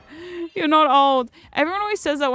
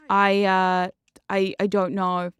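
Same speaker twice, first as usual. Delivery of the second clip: hesitant unsure reply; 4 semitones lower, slower than usual. Retold or imitated. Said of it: "And I went".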